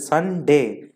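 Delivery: संडे split slowly into two beats, sun - day; संडे in two drawn-out pieces; syllables separated. Shown as a demonstration. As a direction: say संडे with a break between the syllables. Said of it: "अलग-अलग लेना पड़ता है".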